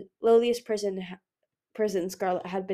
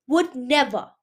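put-on higher, louder frightened boy's refusal; outraged and scared; 4 semitones higher, 6 dB louder, slower than usual. A narrator's reading. Boy refusing the queen, outraged and a touch scared. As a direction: refuse it, afraid. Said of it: "outraged and scared".

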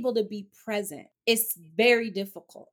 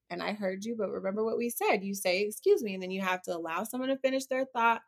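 calm patient mom. Retold or imitated. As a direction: stay unruffled and gently lay out the rule. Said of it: "I can stay that calm".

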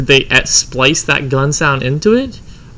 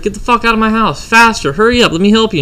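high-pitched mock ordering, at normal volume; imitating angry wife; 6 semitones higher than usual. Wife throws mistress out of the house, imitated anger. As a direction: hurry her out as the outraged wife, pitched up.

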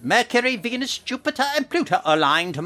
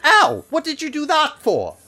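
high loud yelp of pain; 13 semitones higher, 7 dB louder than usual. Real, not acted. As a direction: cry out at the sudden pain. Hair yanked out.

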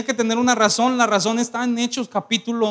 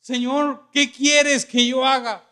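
trembling, fearful; 3 semitones higher, slower than usual. Acted. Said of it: "él temblando y temeroso dijo".

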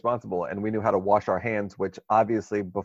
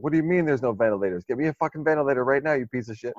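mock yelling patient; 5 semitones higher than usual. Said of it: "in the hospital yelling".

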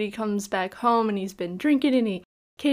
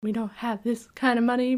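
mock shock. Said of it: "she was more shocked".

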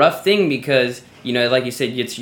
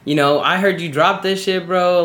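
lightly voiced pushy listener, higher pitch; a hint of a nosy stranger, pitched up; imitated heckler; 6 semitones higher than usual. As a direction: play some guy butting in with an opinion. Acting out a heckling messager.

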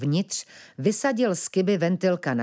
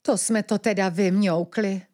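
mildly dejected, higher-pitched cat voice; a small, sad admission of defeat; 4 semitones higher than usual. A narrator's reading. Cat realises they are trapped, mildly sad. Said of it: "hlesla smutně kočka".

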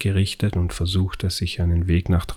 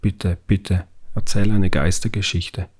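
put-on begging child. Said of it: "hatte Maxi gebettelt".

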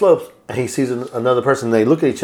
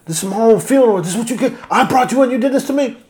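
high, laughing mock lament of the betrayed heir; half-laughing, hammed-up wounded speech; acted betrayed heir; 11 semitones higher than usual. Betrayed heir to his cousin, hammed-up high wounded lament.

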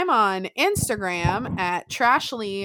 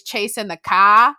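lightly imitated British 'cah' for car; British-sounding singer's accent; 7 dB louder, slower than usual. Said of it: "sounds like he has a British accent".

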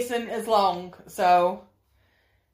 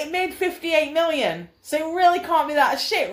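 mock angry; 4 semitones higher than usual. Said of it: "get a bit angry and say".

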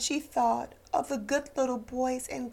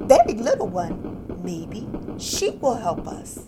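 louder, higher hopeful call; excited call; 5 semitones higher, 6 dB louder than usual. Acted. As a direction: spot the engine and shout for joy. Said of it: "the little clown called out".

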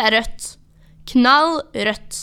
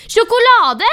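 høyt, lyst rop; 11 semitones higher, 7 dB louder, slower than usual. Acted. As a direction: rop ut ordet i sinne. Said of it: "roper jeg". (sint rop)

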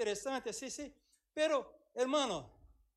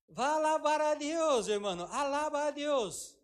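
urging praise; 5 semitones higher, 5 dB louder than usual. Retold or imitated. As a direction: call them to praise.

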